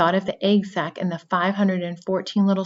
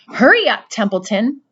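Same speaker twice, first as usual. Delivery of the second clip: high, loud hurried urging; urgent plea; 4 semitones higher, 7 dB louder than usual. A narrator's reading. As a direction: push him to hurry. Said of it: "said Wilbur".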